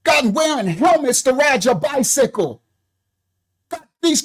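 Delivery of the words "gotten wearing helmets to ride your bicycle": fired-up shouting. Real, not acted. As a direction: hammer it home, shouting. Heated rant defending the president.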